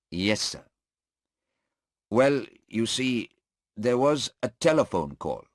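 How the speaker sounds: a firm judge, then a cooperative witness; voiced courtroom figures. The judge presses and the policeman explains the phone call.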